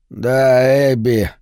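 rasping, spent voice; hoarse rasp. Acted. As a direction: croak it out hoarsely. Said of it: "наконец прохрипел он".

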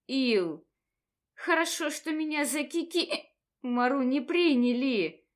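hiccups breaking up the words; talking through hiccups; hiccuping. Acted. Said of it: "не переставая икать". (икая на каждом слове)

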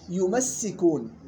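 يمسكون slowly with shadda on the س; Hafs shadda. Shown as a demonstration. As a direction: give يمسكون its doubled س. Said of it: "حفص كيف قرأها؟".

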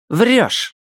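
a hint of a sly high voice; lightly voiced chat user. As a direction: throw it out short and high. Whiteness voice in chat. (слегка изменённый голос)

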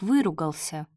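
ordinary delivery, nothing marked

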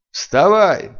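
sharp, loud command, cut through; cutting shout. A narrator's reading. Stranger shouting at fallen Sylvia to get up, loud sharp command. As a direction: snap her awake with one loud word. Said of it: "резанул чужой голос".

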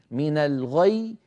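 من الغي slow with a doubled ي; tajweed recitation. Shown as a demonstration. Teacher reading من الغي before stopping on it. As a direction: draw out من الغي, both ي sounds felt. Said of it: "هناك ياءان".

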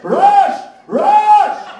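loud, high shout for Raj; calling for help. Acted. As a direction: yell his name across the department. Mathematician calls for help.

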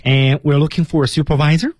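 high, bright enthusiastic greeting; warm and open. Shown as a demonstration. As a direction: sound thrilled to meet them. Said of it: "一定要声情并茂". (热情开放的问候)

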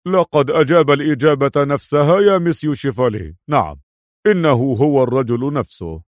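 lightly voiced director reporting by phone; phone-call director. A narrator's reading. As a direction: report firmly to a superior, lightly acted. (صوت مدير يبلّغ رئيسه بالهاتف)

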